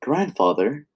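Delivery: a hint of a boy calling his grandfather; put-on boy's voice. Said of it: "not sure why I'm talking like that".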